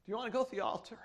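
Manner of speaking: hushed, tender retelling of a mother's invitation; gentle retold question. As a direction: softly repeat the mother's question. Mother's question repeated gently after pause.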